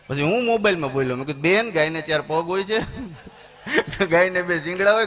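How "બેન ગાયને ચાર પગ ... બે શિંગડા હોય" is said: laughing. Retold or imitated. Teasing recital over phone.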